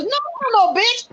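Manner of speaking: lightly acted, sassy backtalk; retold defiant retort. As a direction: imitate someone refusing to back down. Imitates Michael arguing back.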